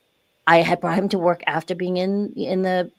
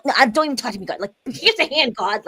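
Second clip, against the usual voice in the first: dismissive anger; 5 semitones higher than usual. Retold or imitated. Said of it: "I was so mad".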